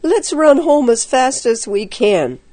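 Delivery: high, panicky warning; scared boy urging escape; frightened cry. A narrator's reading. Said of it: "his teeth chattering".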